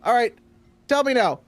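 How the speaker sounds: high, bright joke setup; stand-up comic. Acted. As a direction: pitch the punchline setup up to the crowd. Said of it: "he's just starting telling jokes".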